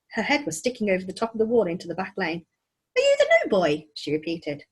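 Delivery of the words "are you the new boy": put-on very high girl calling; girl's voice. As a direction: call it again, impatient. Girl repeats call.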